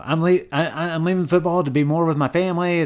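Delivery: lightly mocking retold excuse; mock announcement. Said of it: "he was kinda like".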